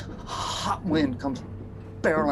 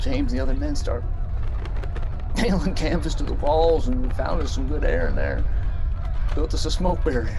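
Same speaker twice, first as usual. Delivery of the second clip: loud, pressing, desperate storytelling; trapped miner's desperate telling; urgent loud telling; 7 dB louder than usual. Acted. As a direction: push it out like you're trapped in the dark. Climax of mine disaster tale.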